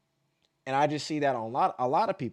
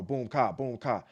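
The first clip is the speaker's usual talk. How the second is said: faster beat demo; 3 semitones lower than usual. Shown as a demonstration. Dancer showing a faster tempo of the same beat, quicker boom ka. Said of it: "Or if I go".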